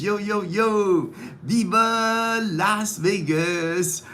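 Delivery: excited shout-out. Real, not acted. Shouting out to friend Tim in Las Vegas, slow hyped call. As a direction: belt it out like a Vegas showman.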